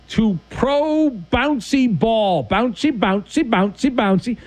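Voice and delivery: high, bouncing title call; sporty jingle-like chant, pitched high; playful segment announcement. Acted. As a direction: draw out the title, then bounce on the repeats.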